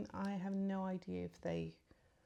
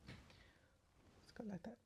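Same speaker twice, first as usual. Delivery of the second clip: mascara face; 3 semitones higher, 14 dB quieter than usual. Real, not acted. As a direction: mouth stretched open while applying mascara. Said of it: "Weird mascara face".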